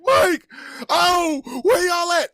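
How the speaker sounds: high, drawn-out call for friends; acted holler into a crowd. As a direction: call out high, searching for your buddies. Calling out for lost friends.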